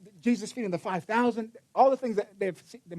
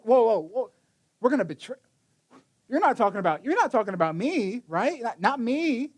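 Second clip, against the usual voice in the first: alarmed disciples; 2 semitones higher than usual. Retold or imitated. Disciples protesting.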